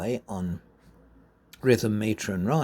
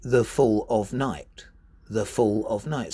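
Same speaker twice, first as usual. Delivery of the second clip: iambic beat, FALL and NIGHT weighted; light "the", strong "fall", light "of", strong "night"; stress on FALL, NIGHT; 2 semitones lower than usual. Shown as a demonstration. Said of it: "See where the focuses are".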